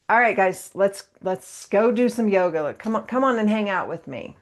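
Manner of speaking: cheerful teacher calling everyone over; playful invite. Shown as a demonstration. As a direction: coax them in like it's fun. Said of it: "And I make it very playful".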